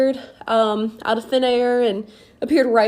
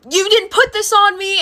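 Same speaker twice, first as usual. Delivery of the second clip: high, louder, near-crying disbelief; frightened mom; 9 semitones higher, 5 dB louder than usual. Retold or imitated. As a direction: shaken mom pleading, voice cracking.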